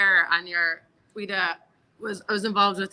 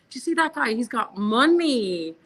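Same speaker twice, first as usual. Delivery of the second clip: mock announcement; 3 semitones higher than usual. Mocking the customer to her staff.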